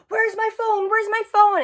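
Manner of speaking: high-pitched, panicky mimicking; retold freak-out. Imitating a party girl who lost her phone, high mock panic. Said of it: "she's, like, freaking out".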